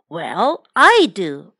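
mild storybook yell, punching the last words; yelled retort. A narrator's reading. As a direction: yell back as the mother, without going all out. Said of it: "mother yelled back".

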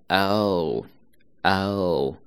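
哦 held full and rounded; full vowel. Shown as a demonstration. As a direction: sound 哦 out fully. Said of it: "一定要饱满一些". (饱满地发哦)

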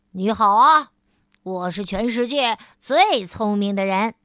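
大声骄傲地打招呼; 得意洋洋地大喊自我介绍; 喊着打招呼. Acted. 聪明先生喊道 proud greeting. (聪明先生向路人高声夸口)

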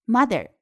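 "mother" with a voiced th, tongue between teeth. Shown as a demonstration. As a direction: bite the tongue lightly for th in "mother". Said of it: "大家注意一定要咬舌".

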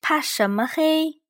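gently asking what dark; Big Bear asking. A narrator's reading. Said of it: "大大熊问。".

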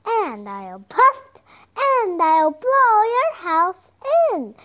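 slow, loud wolf threat rising high; growling wolf. Acted. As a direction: huff and puff like a hammy werewolf. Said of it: "said the wolf".

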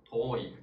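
遠い with a drawn-out o; long o. Shown as a demonstration. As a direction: hold the tō of 遠い before the i. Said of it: "都是o来表示长音的". (遠い里的o拉长念)

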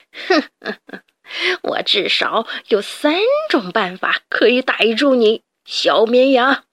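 lightly voiced cruel laugh; sinister sneer. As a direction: gloat like a cruel rat boss. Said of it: "田鼠普老大狞笑着".

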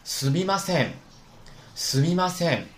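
すみません with せん joined as one syllable; correct reading. Shown as a demonstration. Teacher gives the right すみません, せん as one syllable. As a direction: run せん together smoothly in すみません. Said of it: "是不是应该读成せん".

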